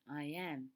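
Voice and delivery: "I am" with weight on "am"; iambic stress. Shown as a demonstration. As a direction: lean on "am" in "I am". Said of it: "remember it from its name".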